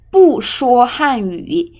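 不 falling sharply from high; powerful falling tone on 不; fourth-tone 不. Shown as a demonstration. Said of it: "不 pronounced as fourth tone".

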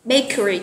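Bakery with the first syllable stressed. Shown as a demonstration. Teacher models Bakery for online learners, first syllable stressed. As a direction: lean on the start of Bakery, then fall. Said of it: "Từ này mình nhấn âm số một ha".

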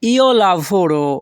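"io lavoro" said very slowly, each syllable drawn out; slow model pronunciation. Shown as a demonstration. Teacher showing Bengali learners the Italian, said very slowly. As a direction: stretch out "io lavoro" so learners can follow it. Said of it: "এর Italian ভাষা হবে".

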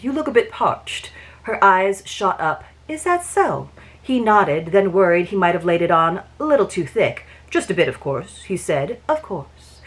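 even, unhurried reading of a romance novel; audiobook-style read-aloud of a Regency romance; story narration. A narrator's reading.

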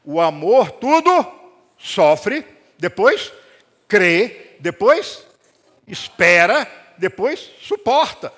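loud, slow, word by word; emphatic scripture. Acted. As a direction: hit each verb of the verse. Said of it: "Paulo diz". (versículo lido com ênfase, devagar)

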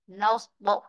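"Notebook" with NOTE stressed, "book" short; stress on first syllable. Shown as a demonstration. Teacher explains the compound, first part stressed. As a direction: put the weight on "Note" in "Notebook". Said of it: "trọng ấm rơi vị trí thứ nhất".

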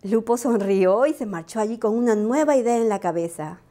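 plain reading voice

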